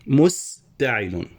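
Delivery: مستعل drawn out very slowly, syllable by syllable; slow scansion. Shown as a demonstration. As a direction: spell مستعل out slowly in beats. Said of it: "هنا مفتعل أو". (نطق مستعل ببطء تقطيعي)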